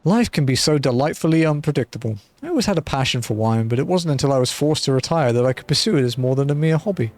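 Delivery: a hint of a genteel retired mercenary, musing; easygoing storyteller tone, lightly put on; lightly voiced wine seller. Streamer reading Shamani Lomani's lines to the adventurer, lightly genteel.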